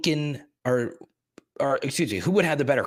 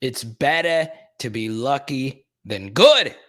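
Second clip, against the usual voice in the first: badly faked British accent, slow and drawn out; slow, loud-ending mock-British delivery; crappy British accent; 5 dB louder, slower than usual. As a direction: do a bad British commentator, punching the last word. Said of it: "It's gonna be a crappy British accent".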